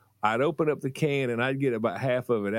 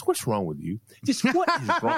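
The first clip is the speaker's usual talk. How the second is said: laughing mom voice. Retold or imitated. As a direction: ask while cracking up.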